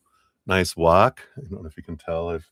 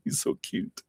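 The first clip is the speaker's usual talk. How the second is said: breathy whispered gush; whispering; 9 dB quieter than usual. Real, not acted. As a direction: whisper it like a secret. Repeats whispered.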